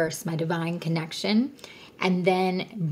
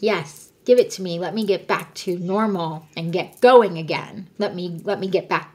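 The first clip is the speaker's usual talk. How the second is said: louder, grasping plea from the ego; the ego demanding the medicine, louder and eager; 5 dB louder than usual. Retold or imitated. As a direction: want it badly and ask for it out loud. Ego voiced as pleading demand.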